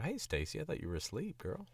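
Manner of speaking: high-pitched Gambit accent. Shown as a demonstration. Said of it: "like, Gambit accent a little bit".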